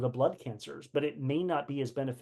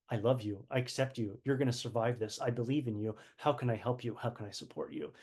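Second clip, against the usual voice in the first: lower, softer reassuring words; gentle support; 4 semitones lower, 5 dB quieter than usual. Shown as a demonstration. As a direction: speak as if to a frightened friend, softly and low.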